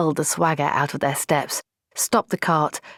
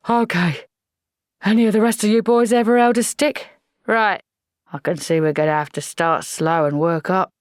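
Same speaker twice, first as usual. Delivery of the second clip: gruff sergeant; 3 semitones higher than usual. Acted. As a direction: bark it like an old army sergeant. Sergeant voice again.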